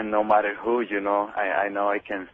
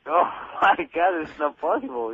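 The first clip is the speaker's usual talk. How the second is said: mildly shocked, higher-pitched retelling; amused, lightly acted astonishment; retold shock; 5 semitones higher than usual. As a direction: replay your disbelief with a laugh in it. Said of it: "I was shocked".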